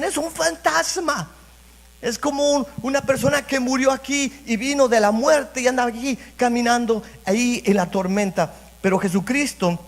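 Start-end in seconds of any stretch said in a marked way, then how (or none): 0.0-8.5 frightened disciples. Retold or imitated. Frightened disciples on the boat crying out about a ghost, high and alarmed. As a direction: mimic the disciples seeing a ghost in the storm, higher.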